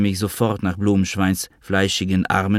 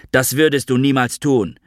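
calling out; 5 semitones higher, 4 dB louder than usual. Acted. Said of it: "Ich hörte mich rufen".

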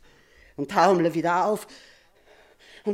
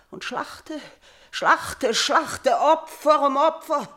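desperate repetition; 5 semitones higher, 4 dB louder, slower than usual. Acted. Queen lists her endless sacrifices.

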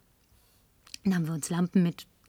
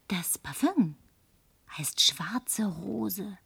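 sehr langsam, tonlos gehaucht; verführerisches Flüstern; 6 dB quieter, much slower than usual. Acted. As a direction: den Namen auskosten. Verführt den Barmann. (flüstert dem Barmann langsam den Duft zu)

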